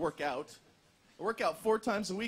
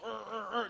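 imitated clumsy grunts; 6 dB quieter than usual. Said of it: "I never had rhythm when I was younger".

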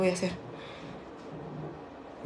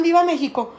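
higher, lightly called cheer; imitated cheer; 5 semitones higher than usual. School staff giving the final cheer, lightly imitated. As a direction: call it out without full force. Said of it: "cuando decían".

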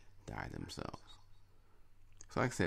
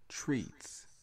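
whispered treats; 7 semitones higher than usual. Real, not acted. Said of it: "listing pet comforts".

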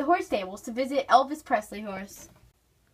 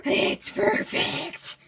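whisper; 5 semitones higher, 3 dB quieter, much slower than usual. Acted. Whispered in blooper.

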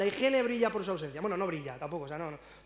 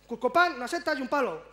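loud, higher curt answer from the barman; gruff waiter reply; 4 semitones higher, 5 dB louder than usual. Retold or imitated. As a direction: snap the answer back curtly. Waiter answering customer brusquely.

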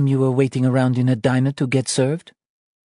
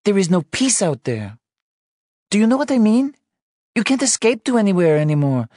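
much higher, louder frightened wife; scared crying; 14 semitones higher, 4 dB louder than usual. Acted. Wife confessing her fear of motherhood, tearful and scared. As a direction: pour out fear through tears. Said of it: "She cried".

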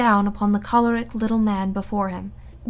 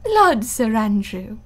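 merry laugh; slower than usual. A narrator's reading. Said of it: "with one of her merry, infectious laughs".

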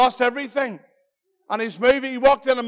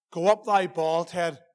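a lower, softer, slow sneer; quieter taunt; 5 semitones lower, 3 dB quieter, slower than usual. Acted. Children mocking Elisha again, a softer lower jeer. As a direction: drop it down into a muttered jeer. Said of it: "Forty-two children began to mock Elisha".

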